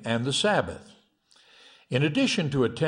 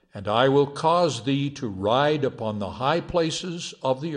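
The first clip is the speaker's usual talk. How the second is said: solemn scripture reading. Acted. Preacher opening the sermon with Isaiah, solemn scripture reading. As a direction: read the prophecy with formal weight.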